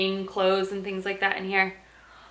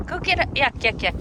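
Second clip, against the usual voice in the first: excited dog call; 5 semitones higher, 4 dB louder than usual. Real, not acted. Playing fetch with her dog.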